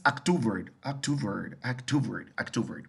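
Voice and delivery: October modelled in English as "ak-TOO-ver", stressed in the middle; pronunciation demo. Shown as a demonstration. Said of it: "se pronuncia es". (demostración de cómo se pronuncia October)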